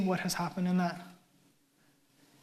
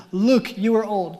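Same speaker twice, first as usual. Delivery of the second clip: blunt; 5 dB louder, slower than usual. Retold or imitated. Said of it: "'cause that's not offensive".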